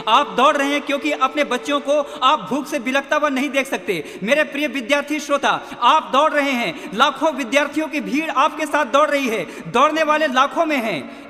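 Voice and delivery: rising, forceful exhortation; impassioned preaching. Real, not acted. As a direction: press it home to struggling listeners. Preacher exhorts the struggling listeners. (जोशीला उपदेश)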